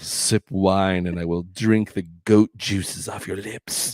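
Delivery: low, slow, hammed-up sultry toast; lightly voiced mock lover; mock seductive husband. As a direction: purr it like a cheesy romantic in a hot tub. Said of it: "if you're gonna talk like that".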